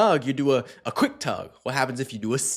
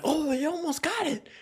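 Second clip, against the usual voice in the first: much higher, teasing voice to a dog; playful dog talk; 3 dB quieter than usual. Retold or imitated. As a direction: tease the dog in a squeaky high voice. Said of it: "much more playful, it's joking".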